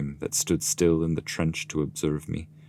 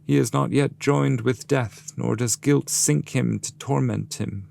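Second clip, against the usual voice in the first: raised, grave guide's voice; solemn guide; 8 semitones higher than usual. Acted. Master explaining Dante to the damned, raised grave voice. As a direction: speak as the wise master answering firmly. Virgil's quoted speech.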